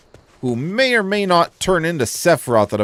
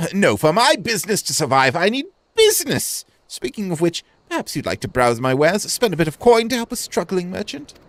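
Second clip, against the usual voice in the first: lightly raised, hopeful shopkeeper voice; voiced merchant; 5 semitones higher than usual. Gamer voicing a struggling merchant, lightly raised voice. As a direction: read it as a worried small trader. Merchant pitches his wares.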